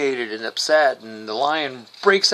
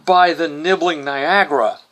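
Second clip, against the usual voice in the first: Steve Trevor's phrase; 3 dB louder than usual. Retold or imitated. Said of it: "as Steve Trevor puts it".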